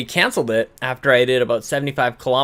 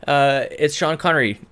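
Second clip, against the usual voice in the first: name slip. Real, not acted. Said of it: "No, it's not".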